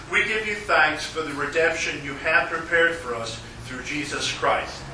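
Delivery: ordinary delivery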